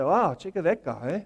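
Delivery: a hint of a smug, muttered put-down; mock the neighbour quietly and smugly; lightly voiced self-righteous gossip; snide judging tone. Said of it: "look down our noses to other people".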